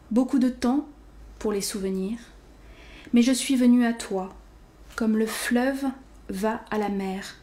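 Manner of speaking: measured poetry reading in short, spaced phrases; poem recitation. Acted. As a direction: recite gently paced verse, letting each line settle.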